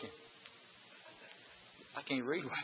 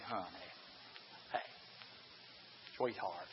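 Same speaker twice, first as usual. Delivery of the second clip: pleading husband; 11 dB quieter than usual. Retold or imitated. Husband pleads with upset wife.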